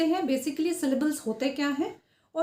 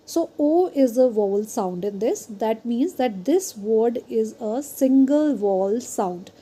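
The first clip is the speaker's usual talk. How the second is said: reads the definition out word by word, slowly; careful, deliberate classroom reading; slow slide reading; 3 dB louder, much slower than usual. Acted. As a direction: dictate it slowly so students can follow. Reads explanation slowly aloud.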